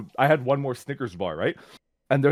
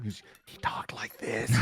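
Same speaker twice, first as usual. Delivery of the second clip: hoarse raspy whisper; imitating the shop guy's raspy whisper; 10 dB quieter than usual. Shown as a demonstration. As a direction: whisper it like the creepy shop guy. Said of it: "whispering the entire time".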